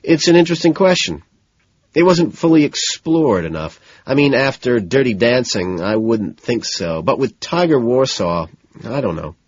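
nervous. Acted. Man giving his date opinions on a show, nervously. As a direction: babble uneasily, hedging as you go. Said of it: "I start nervously".

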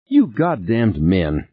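a touch of tight anger, slow; clipped anger held in tight; tight angry voice. Acted. Beth snaps at Norman in tight anger. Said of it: "Beth said in a tight, angry voice".

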